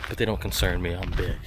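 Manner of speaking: slightly winded speech; out of breath. Real, not acted. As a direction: talk as if short of breath. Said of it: "talking like I'm out of breath".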